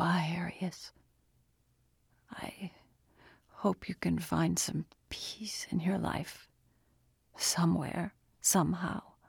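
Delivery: soft, weak, dying whisper. Narrator reads a character's farewell to another man, whispering. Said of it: "Chen whispered".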